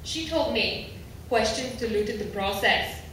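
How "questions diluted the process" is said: put-on German accent. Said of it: "The therapist had a German accent".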